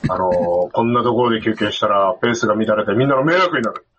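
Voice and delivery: stern mentor. Retold or imitated. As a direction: talk down to him like a veteran. Legend lectures tired hiker.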